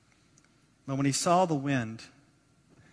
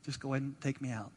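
soft, deflated giving up; mock resignation; 7 dB quieter, faster than usual. Believers facing circumstances, imitated quiet resignation. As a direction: drop the volume and surrender. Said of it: "we start looking at the circumstances".

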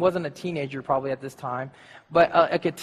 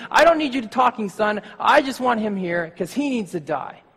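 Saul scolding; 3 semitones higher, 4 dB louder than usual. Retold or imitated. Saul scolding his son.

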